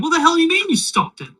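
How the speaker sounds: high, loud, baffled demand; incredulous outcry. Acted. Crowd questions Timmy's claim he stopped it, incredulous outcry. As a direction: pitch leaps up in exasperated disbelief. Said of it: "beside themselves".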